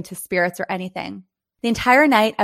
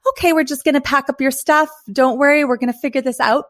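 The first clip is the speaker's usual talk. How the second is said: reassuring; 5 semitones higher than usual. Retold or imitated. Receptionist reassuring scared guest.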